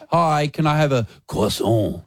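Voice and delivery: mock French croissant. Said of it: "someone that goes".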